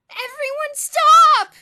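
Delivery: very loud, slow high command. A narrator's reading. Elmer halting the crowd, commanding. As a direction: order the whole hall to freeze. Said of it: "he commanded".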